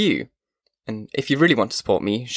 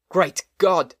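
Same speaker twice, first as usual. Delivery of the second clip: higher, sudden cry of shock; startled exclamation; 5 semitones higher than usual. Acted. Blind old man startled by the creature, shocked exclamation. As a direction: gasp it out at the sight. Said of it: "exclaimed the man".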